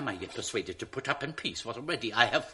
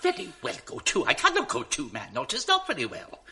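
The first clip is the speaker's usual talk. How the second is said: mocking echo; 4 dB louder than usual. Dupe mocks schemer's brush-off, scornful. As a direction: throw his words back. Roderigo mocks Iago's words.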